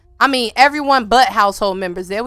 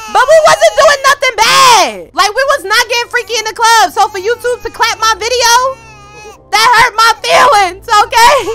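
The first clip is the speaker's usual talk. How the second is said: high indignant complaint; 9 semitones higher, 7 dB louder than usual. Real, not acted. Complaining about YouTube.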